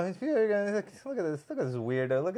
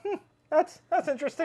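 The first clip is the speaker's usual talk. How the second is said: judgy onlooker; 12 semitones higher, faster than usual. Retold or imitated. People judging a top hat.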